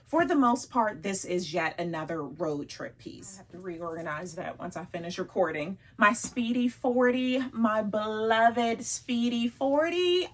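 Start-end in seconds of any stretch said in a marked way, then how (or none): 6.0-10.3 loud, high, slow adoring gush. Real, not acted. Vlogger gushing to viewers over her bag, loud and high.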